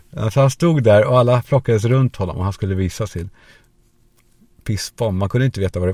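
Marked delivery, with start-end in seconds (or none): none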